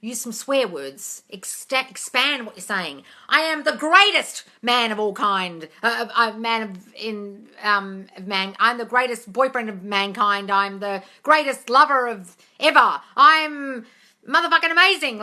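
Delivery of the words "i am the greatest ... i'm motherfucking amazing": exaggerated affirmation. Shown as a demonstration. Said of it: "exaggerate them".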